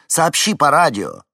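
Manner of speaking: loud, high urgent call; urgent shout. A narrator's reading. Henni urges Vincent to radio for help, urgent shout. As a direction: demand it over the engine noise.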